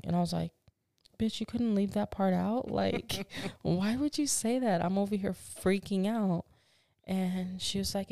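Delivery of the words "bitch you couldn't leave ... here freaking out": indignant, pitched-up retort; outraged retort. Retold or imitated. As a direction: snap back in disbelief. Retelling a rude doctor's remark.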